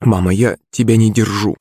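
ordinary delivery, nothing marked

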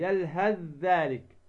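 slow "يلهث ذلك", ث becomes ذ; merged recitation. Shown as a demonstration. Teacher repeats the example, merged ث. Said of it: "فتدغم الثاء في الذال".

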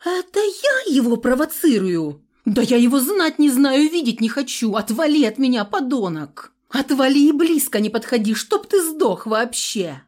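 high, loud furious screaming. A narrator's reading. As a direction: scream at him in outrage. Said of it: "мои вопли".

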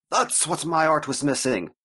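hammed-up Italian artist, voice shooting up at the end; weird Italian accent. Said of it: "I did that weird Italian Mobius thing".

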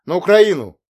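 loud defiant blurt; blurted answer. Acted. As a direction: throw the answer out sharply. Boy answers, head down.

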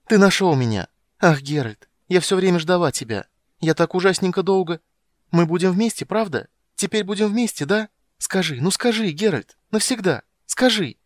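put-on high, loud child voice bursting with joy; a girl who always knew he'd come; overjoyed little girl. Girl to the witcher who found her, high joyful child voice.

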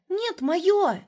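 put-on high, loud little girl cry; little girl guarding her ice cream, high and loud; childish exclaim. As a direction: grab it back like a greedy child. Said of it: "воскликнула та".

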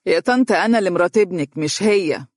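lightly sneering reply; mild mocking superiority; sarcastic. Dunya sarcastically reminds mother she is the wife. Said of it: "وقالت بتهكم".

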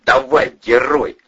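sharp loud dare; taunting command. A narrator's reading. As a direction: goad him loudly at gunpoint. Holding officer at gunpoint.

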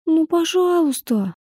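put-on high, slow whining little girl; whiny child pleading. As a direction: drag out the please like a begging kid. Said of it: "законючил ребёнок".

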